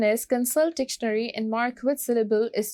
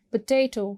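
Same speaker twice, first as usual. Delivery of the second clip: "पोटैटो" with weight on the second syllable; stress on second syllable; 2 semitones higher, 4 dB louder, much faster than usual. Shown as a demonstration. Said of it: "second syllable को stress करोगे". ("पोटैटो" में दूसरे syllable पर ज़ोर)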